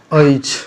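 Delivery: अछि with an aspirated chh; pronounced achhi. Shown as a demonstration. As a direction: say अछि as "a-chhi", breathy chh. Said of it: "अछि पर इसका उच्चारण होता है".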